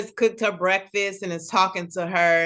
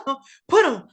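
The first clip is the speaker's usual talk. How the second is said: higher, laughing hype from the back; sideline cheering; 7 semitones higher, 5 dB louder than usual. Retold or imitated. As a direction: egg the fighter on while giggling. Friend cheering fight from sidelines.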